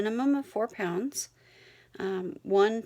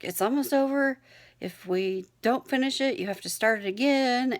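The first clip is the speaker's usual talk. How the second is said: reassuring self-talk; 4 semitones higher, 3 dB louder than usual. Retold or imitated. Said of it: "talk myself down".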